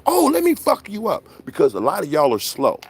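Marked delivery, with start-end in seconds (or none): 0.0-1.2 mocking tough talk. Mocking yappers.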